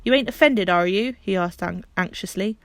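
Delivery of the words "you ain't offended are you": anxious Perks. Acted.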